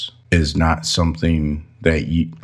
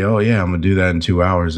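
careless brush-off; 2 semitones higher, faster than usual. Retold or imitated. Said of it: "Don't say".

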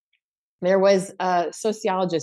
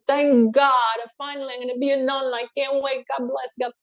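higher-pitched Italian mom, thrilled and relieved; overjoyed mother; 4 semitones higher than usual. Acted. Mother hears her son is getting married, overjoyed. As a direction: gush as the delighted mother. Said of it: "She's so happy".

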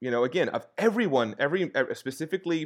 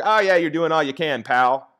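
louder, higher mock pat on the back; mock encouragement; 4 semitones higher, 7 dB louder than usual. Speaker mimicking empty praise for a well-meaning helper, mock encouragement.

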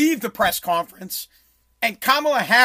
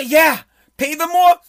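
louder and slow, a mocking imitation; 4 semitones higher, 6 dB louder than usual. Mocking people who tell small businesses to pay more. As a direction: parrot them with contempt. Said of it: "that would say".

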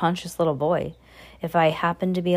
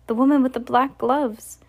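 shouting down; 7 semitones higher than usual. A narrator's reading. Boy shouting down from tree.

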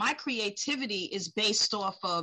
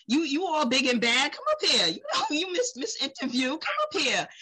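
calling out audience; 7 semitones higher, 3 dB louder than usual. Retold or imitated. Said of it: "I might just start picking on people".

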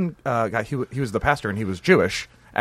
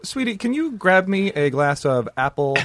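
prissy diner. Retold or imitated. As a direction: order like a fussy dinner guest. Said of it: "I'm not sitting down at dinner and like".

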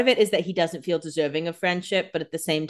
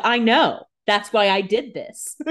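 mock smug Enzo; 4 semitones higher, 4 dB louder, slower than usual. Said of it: "Enzo's like".

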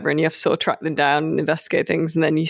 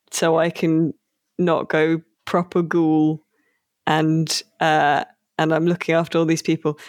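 put-on Irish accent. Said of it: "he's got a terrible Irish accent".

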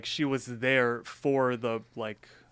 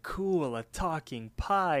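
impressed sidekick; 4 semitones higher, slower than usual. Retold or imitated. Acting out Rigby's amazement at pie.

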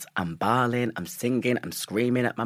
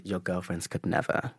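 quiet sassy put-down; 2 semitones lower, 6 dB quieter than usual. Retold or imitated. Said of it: "but what I did say is".

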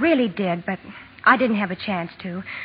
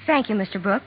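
calm and decided; 3 dB quieter than usual. Pretend. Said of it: "quite calmly and decidedly".

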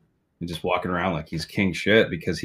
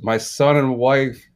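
slow, high, gurgling spirit voice; drawn-out watery ghost moan; bubbling water voice; 5 semitones higher, slower than usual. Acted. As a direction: speak as if through bubbles underwater. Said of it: "the bubbling voice says".

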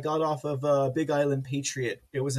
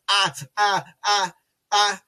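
starstruck stammer; 3 semitones higher, 7 dB louder than usual. Retold or imitated. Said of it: "I could not even get that out of my mouth".

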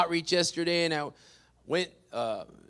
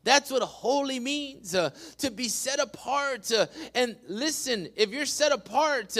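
forceful preacher's cadence; preaching; 8 semitones higher, 4 dB louder than usual. Real, not acted. Pastor urging the church to be set apart, preaching. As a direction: punch the key words like a preacher.

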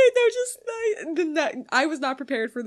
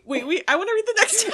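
laughing; 8 semitones higher, 4 dB louder, faster than usual. Real, not acted.

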